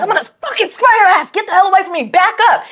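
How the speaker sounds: high-pitched warning yell; heated reenacted threat; retold angry threat. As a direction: warn off an attacker, high and urgent. Retold threat with pepper spray.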